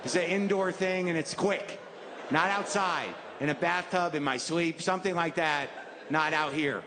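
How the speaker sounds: mock pleading prayer. Kneeling on the hill begging God, mock desperate plea. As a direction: bargain with God in a comic panic. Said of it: "appeal to a God ... and say".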